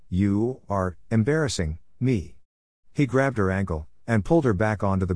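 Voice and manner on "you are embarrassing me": slow, low gravelly voice; gravelly growl, slowly; low gravel vigilante growl. Acted. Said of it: "in a low gravelly voice".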